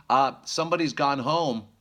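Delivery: put-on high, loud little baby voice; baby bear voice. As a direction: chirp it like a happy toddler.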